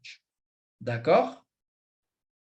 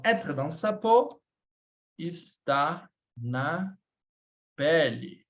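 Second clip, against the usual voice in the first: modelo; 3 semitones lower, much slower than usual. Shown as a demonstration. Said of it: "a gente vai utilizar essa estrutura".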